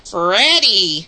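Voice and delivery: drawn-out, creepy imitation of a ghostly call. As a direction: mimic a creepy voice calling a name. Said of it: "in a really creepy way".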